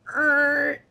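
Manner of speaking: drawn-out "er" for a lopsided balloon; imitated balloon noise. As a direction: groan like a tilting balloon. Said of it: "the whole balloon is like".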